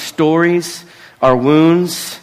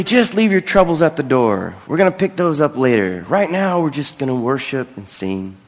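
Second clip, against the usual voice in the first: the church leaders' voice; 2 semitones higher than usual. Retold or imitated. Pastor quoting church leaders, lightly voiced and upbeat. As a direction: cheerfully brush troubles aside, then settle. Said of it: "they would say".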